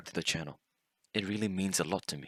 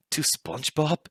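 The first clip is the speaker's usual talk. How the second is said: higher, louder mock disbelief; incredulous question; 6 semitones higher, 4 dB louder than usual. Older brother catching narrator with Nickelodeon on, incredulous. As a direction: imitate a brother's baffled question.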